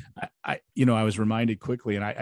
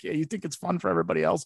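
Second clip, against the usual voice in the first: sarcastic challenge; 7 semitones higher, faster than usual. Retold or imitated. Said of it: "I'm like".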